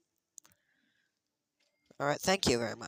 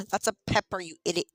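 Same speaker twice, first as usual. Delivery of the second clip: sharp gasp, then a louder, higher mock insult; gasping surprise; 4 semitones higher, 4 dB louder, faster than usual. Real, not acted. Gamer spotting a pepper in the shop, surprised gasp. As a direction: catch your breath and scold the game.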